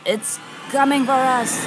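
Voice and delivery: ominous horror trailer voice; mock ominous. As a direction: warn like a horror movie. Spooky mock warning about PMA.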